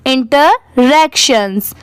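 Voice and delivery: "इंटरैक्शंस" slowly, with a gap after inter; slow, in parts. Shown as a demonstration. Teacher repeating it for learners, "इंटरैक्शंस" slow and split. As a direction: split "इंटरैक्शंस" into two careful pieces.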